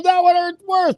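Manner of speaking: high, squealed complaint through laughter; laughing protest. Retold or imitated. Daughter complaining to nurse after the bigger needle, laughing protest.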